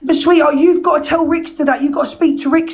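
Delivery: hoarse, strained shouting. Real, not acted. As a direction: voice nearly gone from yelling. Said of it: "my voice is gone. Sorry for shouting".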